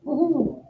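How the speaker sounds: small high-pitched woohoo; soft little falsetto-like whoop; mock cheer. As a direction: cheer it high but softly. Mock cheer at childhood supermarket trip.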